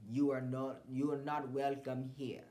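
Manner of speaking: lightly put-on Botswanan accent, slow and firm; a hint of a Botswanan woman telling her ex he's not welcome. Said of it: "supposed to be a Botswanan accent".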